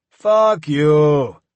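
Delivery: loud defiant curse; angry shout. A narrator's reading. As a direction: spit it out furiously. Defiant captive curses captor.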